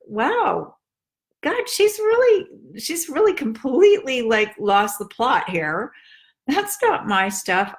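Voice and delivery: a shocked aside to herself, then settling; inner surprised thought. Retold or imitated. Daughter thinking about her critical mom, startled. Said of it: "But if I realized, like".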